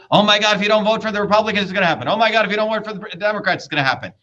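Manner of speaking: fast, breathless mock fear-mongering; mock alarmist panic. Mocking both parties' scare talk, fast mock panic. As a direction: rattle it off like a panicky campaign ad. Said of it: "you see the story".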